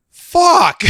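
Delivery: high-pitched disgusted exclamation; retold disgust. Friend who goes in to check, retold disgust. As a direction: let the curse jump up high, disgusted. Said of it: "In complete disgust".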